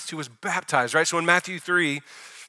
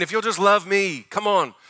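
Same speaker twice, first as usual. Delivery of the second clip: earnest loving plea, pitched higher; heartfelt invitation, raised pitch, easing off at the end; Jesus's inviting tone; 5 semitones higher than usual. Retold or imitated. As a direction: coax them to come along. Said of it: "So that's his tone".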